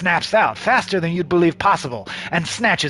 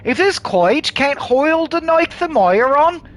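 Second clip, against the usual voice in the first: grim partner; 8 semitones higher, 3 dB louder than usual. Acted.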